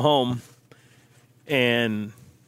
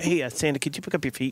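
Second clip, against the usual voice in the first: soft polite ask; 5 semitones lower, 7 dB quieter than usual. Pretend. Wife asking Santa politely.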